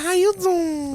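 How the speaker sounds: high put-on feminine voice; mock feminine flirt. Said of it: "This is my feminine voice".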